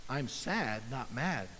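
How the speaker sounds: hushed, low, stunned; awed realization. Retold or imitated. Dave realizing God's words, hushed and awed. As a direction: let it land softly, almost breathless. Struck by revelation.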